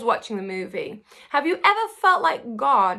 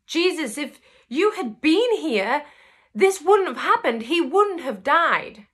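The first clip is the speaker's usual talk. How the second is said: higher, louder, pained plea to Jesus; grieving reproach; 5 semitones higher, 3 dB louder than usual. Retold or imitated. Martha reproaching Jesus for coming too late, pained and louder. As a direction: lay the loss at his feet, aching.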